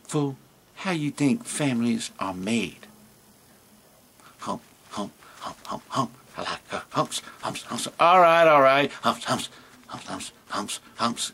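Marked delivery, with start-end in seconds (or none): 0.0-7.9 cheeky camel crooning under his breath. Acted. Camel chants about humps. 9.0-11.3 soft low camel chanting humps; cheeky camel crooning under his breath. Acted.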